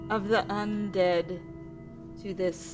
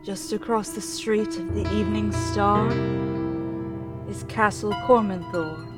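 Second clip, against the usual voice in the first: ghostly spirit voice. Acted.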